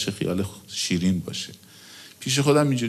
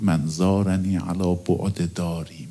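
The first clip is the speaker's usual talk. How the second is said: reverent quote; 2 semitones lower, slower than usual. Retold or imitated. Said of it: "آقا فرمود".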